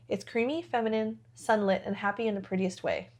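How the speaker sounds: dreamy product description read; reading notes aloud. Acted. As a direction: read it like a perfume ad. Reads perfume notes description.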